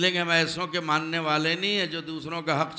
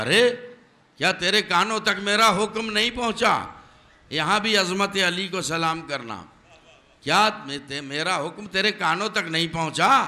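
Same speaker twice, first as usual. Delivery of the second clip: higher, louder royal rebuke; angry king; 3 semitones higher, 4 dB louder than usual. Acted. Solomon rebukes the angel of death, high and furious. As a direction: thunder at the intruder like a wronged king.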